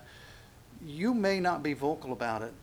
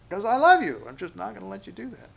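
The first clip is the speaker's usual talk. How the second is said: loving father; 7 semitones higher, 8 dB louder than usual. Retold or imitated. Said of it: "it's like a father".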